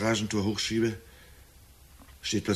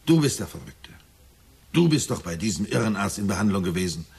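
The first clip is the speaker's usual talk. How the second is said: retold angry retort; 6 dB louder than usual. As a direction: throw the accusation back hard. Son shouts back in quarrel. (wütend zurückgeschrien, lauter und höher)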